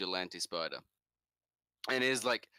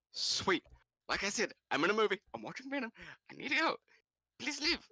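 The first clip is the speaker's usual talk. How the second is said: hurried; 12 semitones higher, faster than usual. Retold or imitated. Rushing caller off, in cinema.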